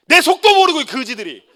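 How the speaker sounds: loud laughing mock insult; laughing jab. Real, not acted. Pastor joking about the youth who call him hip, laughing loudly. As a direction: tease them through a laugh.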